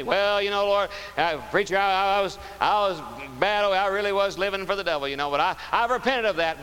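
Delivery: mock sinner's excuse. Preacher mimics repentant people.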